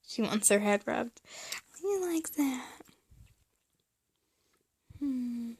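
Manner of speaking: words round chewing gum. Real, not acted. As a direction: gum in mouth while talking. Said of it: "Please excuse my gum chewing".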